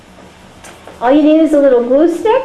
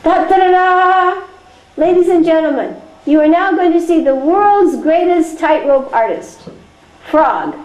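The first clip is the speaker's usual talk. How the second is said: booming sky announcer; 3 semitones higher than usual. Pretend. Voice from the sky presents Frog, grand announcer. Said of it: "there's an Akashvani voice coming from the sky".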